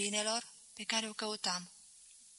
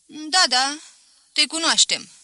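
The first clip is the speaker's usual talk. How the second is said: put-on old spinster voice; 6 semitones higher, 8 dB louder than usual.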